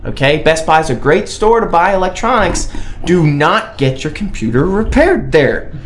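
speaking through clenched teeth; words pushed through gritted teeth. Real, not acted. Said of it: "He's speaking through his teeth".

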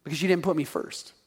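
voice of God. Retold or imitated. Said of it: "You know what God says?".

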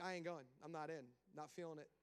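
casual God. Retold or imitated. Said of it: "and God's like".

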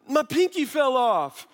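high, slow mock child's wail; crying daughter. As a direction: imitate a tearful little girl. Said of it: "she starts crying".

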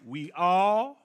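deliberate, loud, spaced-out preaching; real slow. Real, not acted. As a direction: say it slowly for emphasis. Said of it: "I say it real slow".

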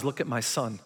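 soft, low, hushed tender reply; tender God voice. Retold or imitated. God answers Satan about his son, soft and tender. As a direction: whisper it like a loving father. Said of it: "God says".

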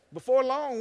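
ordinary delivery

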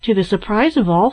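ordinary delivery, nothing marked

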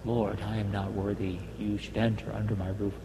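ordinary talk

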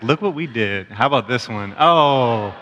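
sing-song mock sweetness; a hint of a sly child mocking; kid's sarcastic voice. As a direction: imitate a cheeky kid thanking mom. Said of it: "he's like".

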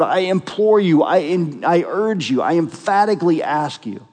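mildly urgent, emphatic appeal; emphatic pleading. Acted. Preacher voicing Paul imploring the church, emphatic. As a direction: press each restated plea a little. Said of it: "Paul is incredibly emphatic".

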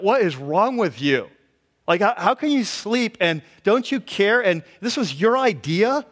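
exasperated, accusing questions; irritated. Acted. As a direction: pile up indignant questions. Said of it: "you can hear the irritation in their voice".

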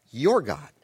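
pause, then lean on "your"; pointed "your", set apart after a pause; stress on "your". Shown as a demonstration. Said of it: "I thought he was his God too".

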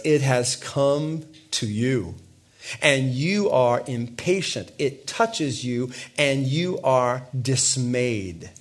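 slow, weighty reading of the verse; slow scripture reading. Acted. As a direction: read each phrase slowly and gravely.

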